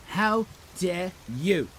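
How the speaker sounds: slow, deliberate mock outrage; mock indignation. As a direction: draw out each word in pretend offence. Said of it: "says Shelley".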